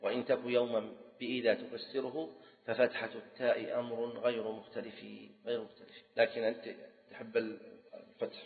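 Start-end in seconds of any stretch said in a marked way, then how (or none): 0.0-6.0 slow, metrical recital, tailing off softer; slow teaching verse, quieter towards the end; verse recitation. Shown as a demonstration. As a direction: recite the rule as a measured couplet. Recites grammar verse again.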